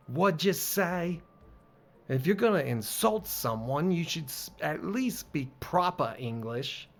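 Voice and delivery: affronted put-on British accent. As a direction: scold in a light British accent. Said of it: "this game wants me to do accents".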